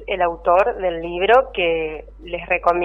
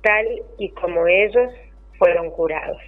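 poem reading. Acted. Poem read aloud on air.

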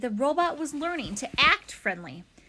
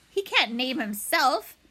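squawking goose; 3 semitones higher, 5 dB louder than usual. Acted. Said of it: "squawked Ludwig".

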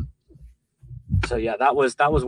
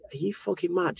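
pitched-up, incredulous mock outrage; mock outraged wife; 8 semitones higher, 4 dB quieter than usual. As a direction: imitate Robin scolding in disbelief. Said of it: "Robin was like".

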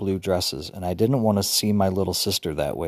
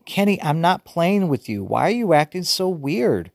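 choky; 9 semitones higher than usual. A narrator's reading. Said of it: "Her voice was starting to get all choky".

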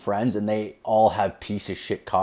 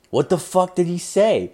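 shocked question; 8 semitones higher than usual. Retold or imitated. Reacting to boss's shocking report.

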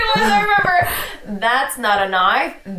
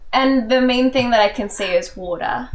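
put-on Australian accent. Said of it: "Our Australian fans hate us".

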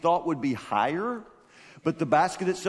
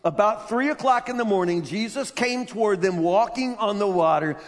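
amazed retelling; 5 semitones higher, 3 dB louder than usual. Shown as a demonstration. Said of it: "remember to be amazed by this".

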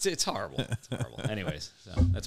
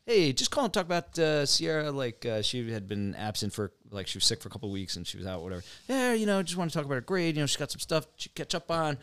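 imitating Dave; 3 semitones higher than usual. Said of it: "he's got a pretty recognizable voice".

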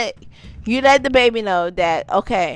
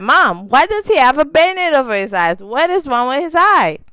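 imitating a child; 6 semitones higher, 3 dB louder, faster than usual. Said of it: "He was like".

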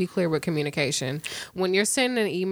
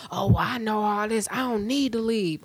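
smug coworker. Retold or imitated. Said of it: "you feel like".

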